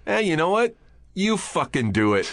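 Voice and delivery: high scoffing mock Todd; quoting Todd. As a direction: pitch jumps up on what. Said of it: "Todd was just like".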